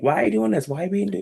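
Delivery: put-on very high-pitched whiny little boy; mock tantrum in a high whine; Lex Luthor. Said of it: "whiny little boy, like, screaming at Superman".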